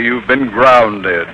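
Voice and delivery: slow booming declaration; stern shout. Acted. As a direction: hand down the ruling. Principal punchline ruling.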